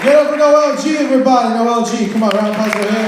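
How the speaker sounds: rally the room for applause; crowd shout. Real, not acted. Calling for applause.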